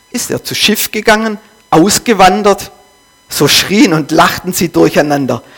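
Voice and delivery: reads the parable aloud with rising intensity; solemn dramatic reading of a parable. Acted. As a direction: read it like a storyteller gripping the room. Preacher reads Nietzsche parable aloud.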